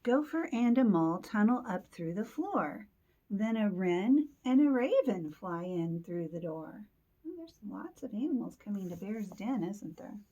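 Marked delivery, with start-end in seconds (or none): 0.0-6.8 put-on lively read-aloud for children; story narration. A narrator's reading. Teacher reads animals arriving to children, lively story narration. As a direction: read the picture book with clear emphasis.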